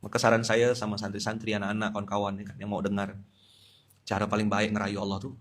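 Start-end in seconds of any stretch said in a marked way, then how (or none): none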